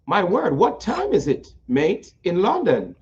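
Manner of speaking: lightly hammed-up British accent, swooping high; a teasing go at British English; mock British accent. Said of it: "I love that British accent".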